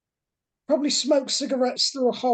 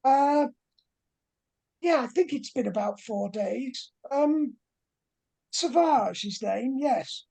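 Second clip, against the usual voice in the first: flamboyant British professor; 3 semitones higher than usual. Acted. Professor Fontaine pleads with the investigators, lightly posh and fussy. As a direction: play the flustered posh professor missing his student.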